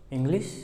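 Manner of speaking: इंग्लिश said with ng nasal; English word said slowly. Shown as a demonstration. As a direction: model इंग्लिश for the class. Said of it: "पहला शब्द ही हम लेते हैं इंग्लिश".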